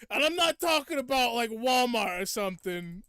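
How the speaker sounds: loud, high demon clarifying; comic devil. Retold or imitated. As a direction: insist on it as a hammed-up devil. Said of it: "the voice for it is so funny".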